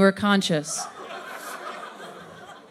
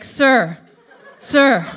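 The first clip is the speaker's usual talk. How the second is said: louder calling out to a stranger; mock stranger calling sir, louder; calling out loudly; 6 dB louder than usual. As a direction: call after someone, getting louder. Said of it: "he's just like".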